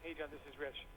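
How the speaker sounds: faint, thin phone-line voice; over a landline phone. Real, not acted. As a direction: caller heard through a phone line. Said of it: "I can hardly hear you".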